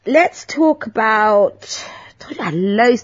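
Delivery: whisper. Real, not acted.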